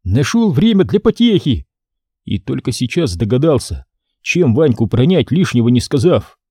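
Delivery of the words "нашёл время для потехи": put-on lightly stern boy prince; a hint of strict rebuke. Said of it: "продолжал строго".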